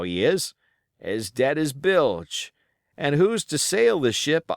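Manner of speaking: put-on wounded old pirate, rough and grumbling; pirate sailor. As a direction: play the injured seaman, griping. Pirate Hands speaks.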